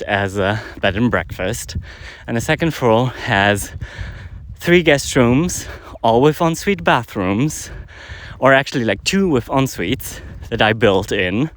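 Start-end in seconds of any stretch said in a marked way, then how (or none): 2.3-11.5 out of breath from walking uphill. Real, not acted. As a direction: talk while climbing a hill, short of breath. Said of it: "I'm out of breath a bit 'cause I'm walking up a hill".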